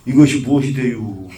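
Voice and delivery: Chungcheong dialect. Shown as a demonstration. Monk shows why this hwadu loses force, Chungcheong dialect. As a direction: end it in slack Chungcheong dialect. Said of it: "충청도 말로".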